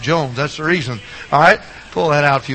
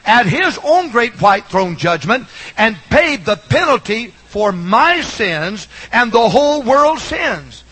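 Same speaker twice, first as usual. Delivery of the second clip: higher, deliberate gospel preaching; earnest preaching; 5 semitones higher than usual. Real, not acted. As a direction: preach it with measured emphasis, pitch lifted.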